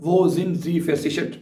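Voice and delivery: very slow, every German word spelled out for learners; slow dictation. Shown as a demonstration. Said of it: "तो ये सवाल पूछा जाएगा".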